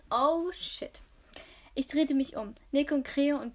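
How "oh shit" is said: hoch, steigend, erschrocken. Shown as a demonstration. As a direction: fluche laut auf, ertappt. (laut und erschrocken aufgeschreckt)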